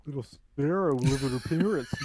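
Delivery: laughing. Retold or imitated. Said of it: "he was like".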